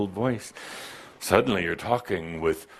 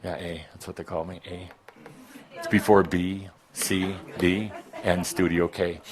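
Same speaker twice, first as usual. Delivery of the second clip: usual speaking voice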